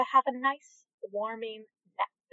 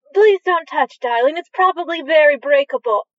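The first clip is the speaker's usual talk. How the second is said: high, louder anxious mum voice; fussy mother; 4 semitones higher, 6 dB louder than usual. Acted. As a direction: hush the child like a nervous parent. Mother scolding child in shop.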